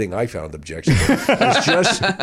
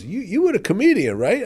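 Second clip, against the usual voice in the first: higher, curious; big shot questioning; 9 semitones higher than usual. Retold or imitated. Big shot recognizing the comic at the bar, higher. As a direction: size up the comic. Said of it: "he goes".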